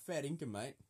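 "fair dinkum, mate" in a light Australian accent; a hint of Australian accent; Aussie accent demo. Shown as a demonstration. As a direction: drop into an Aussie accent for the phrase. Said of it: "In a Aussie accent".

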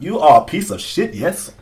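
teasing put-on African accent; mock-formal insult in African accent. Host playfully insulting co-host, mock African accent. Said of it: "say that with my African accent".

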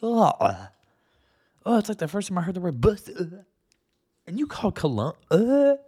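disgusted outburst. Real, not acted. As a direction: blurt it out, grossed out.

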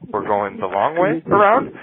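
slow, questioning rise on "around"; sheepish answer. Retold or imitated. Pilot answering captain about the six thousand miles, sheepish. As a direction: draw it out into an unsure question.

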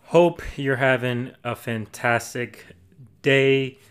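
a little breathless after lunch; out of breath. Real, not acted. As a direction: talk slightly winded, short of breath. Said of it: "if I sound like I'm out of breath".

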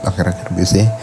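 drowsy late-night talk; sleepy. Real, not acted. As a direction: talk like you're fighting off sleep. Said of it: "gue udah ngantuk banget".

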